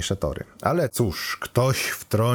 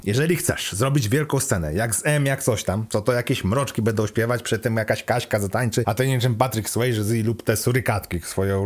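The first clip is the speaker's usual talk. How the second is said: higher, breezy know-it-all computer; lightly voiced chatty AI; 3 semitones higher than usual. Car computer advises the lovestruck student, chatty and cheeky. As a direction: lightly play an AI rattling off romantic advice.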